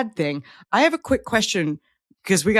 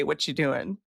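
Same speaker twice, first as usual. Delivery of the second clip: casual greeting; 5 semitones lower, 7 dB quieter than usual. Shown as a demonstration. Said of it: "what's the tone you use".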